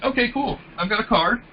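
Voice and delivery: mildly indifferent recruiter; slightly disinterested. Shown as a demonstration. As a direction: toss it off as if barely interested. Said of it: "slightly disinterested".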